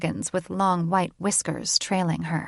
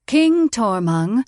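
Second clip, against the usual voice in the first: high, slow tut-tut call; scolding; 4 semitones higher, 7 dB louder, slower than usual. A narrator's reading. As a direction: chide him like a child. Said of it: "grandmother clucked her tongue".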